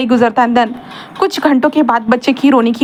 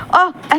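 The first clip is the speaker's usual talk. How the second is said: pained groan; 6 semitones higher, much slower than usual. Retold or imitated. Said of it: "ऐसे कहता है और विंग अपने स्टमक को पकड़ता है".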